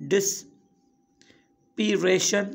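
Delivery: ڊسپيريشن very slowly, split by long pauses; syllable by syllable. Shown as a demonstration. Teacher splitting a long word for learners, syllable by syllable. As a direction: break ڊسپيريشن into separate syllables. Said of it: "ته ان لاءِ توهان هن جا syllable ٺاهيو".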